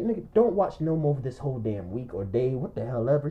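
low, quiet retold lecture; weary admonishment. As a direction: play the fed-up friend laying down a rule softly. Retells friend's weary stern advice.

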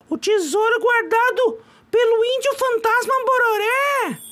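haunt the name like a spirit; mock ghostly chant of the legend; eerie echo. Echoing the legend eerily.

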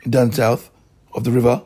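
angry rant. Real, not acted. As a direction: spit it out furiously at the offender. Ranting angrily at a rival.

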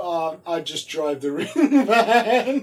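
laughing through a slow, mock-modest reply; laughing while quoting. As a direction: quote him slowly while breaking into laughter. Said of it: "look at him go".

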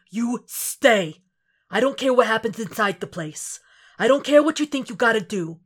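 a partner laying down orders, stern and insistent. Acted. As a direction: lay down the law, worried underneath. Frank lays down strict orders.

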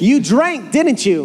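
accusing question. Acted. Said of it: "what I like to call an answered question".

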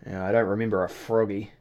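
gruff Irish innkeeper. Acted. Innkeeper voiced.

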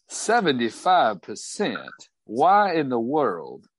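a hint of Southern disbelief; incredulous Southern drawl. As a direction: question the cut in a Southern drawl. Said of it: "Thornbuckle's accent".

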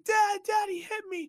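high-pitched wail calling for Dad; tattling whine. Retold or imitated. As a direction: imitate a crying kid telling on someone. Alan running crying to his father.

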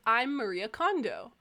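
Maria with an added "eh-uh" sound at the end; Maria, not stopping at "ee". Retold or imitated. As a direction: say Maria in three syllables. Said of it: "she would say it with, like, an A sound".

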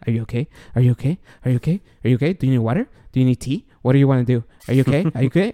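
rapid-fire string of worried questions; mild mock panic, questions piled up; retold fretting. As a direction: imitate an anxious parent checking over and over. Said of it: "I'm, like, freaking out".

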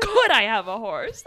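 loud imitation, booming on Could; comically loud mock request. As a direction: blurt the question loudly, punching Could. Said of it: "Like, he's so loud".

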